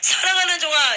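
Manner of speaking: a touch of stern loud rebuke; mild reproachful divine voice; rebuking Jesus. Retold or imitated. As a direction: scold a servant gently but firmly. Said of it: "예수님이 책망하시더라고요".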